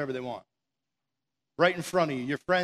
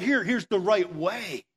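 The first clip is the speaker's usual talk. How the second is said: slowed, patient pointing the way; gentle guidance; 3 semitones higher, 3 dB louder, slower than usual. Retold or imitated. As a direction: guide them kindly, unhurried. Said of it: "It's like".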